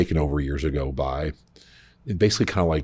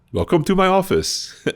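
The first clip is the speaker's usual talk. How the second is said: mock bathroom attendant; 6 dB louder than usual. Attendant greeting, retold.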